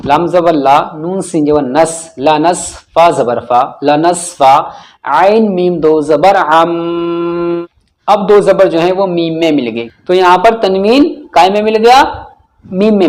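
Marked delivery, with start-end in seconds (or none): 0.1-7.7 syllable-by-syllable drill ending in a long hummed "अम"; spell, join, then hold the m of "अम". Shown as a demonstration. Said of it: "अब हम इनकी हिज्जे करते हैं". (हिज्जे करके "अम" पर लंबा गुन्ना)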